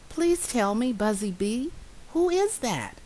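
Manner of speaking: high, wondering mouse voice; little mouse asking. Acted. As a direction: ask eagerly, pitched high. Mouse asks the bee.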